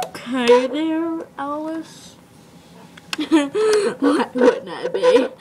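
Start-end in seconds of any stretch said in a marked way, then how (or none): 3.2-5.4 crying laugh. Acted. Alice cries while laughing.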